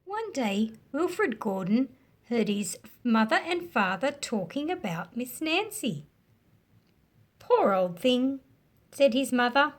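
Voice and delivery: story narration. A narrator's reading. Teacher reading a picture book to children, animated storytelling. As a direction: bring the picture book alive for kids.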